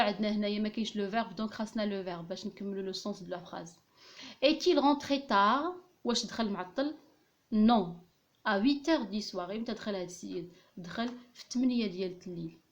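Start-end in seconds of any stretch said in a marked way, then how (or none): 4.4-5.7 slow dictation reading. Shown as a demonstration. Dictating the example sentence. 8.5-9.5 slow dictation. Shown as a demonstration. Dictating the answer.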